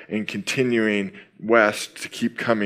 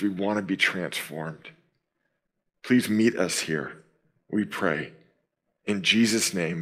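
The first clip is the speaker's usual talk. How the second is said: prayer. Acted. Opening prayer before sermon.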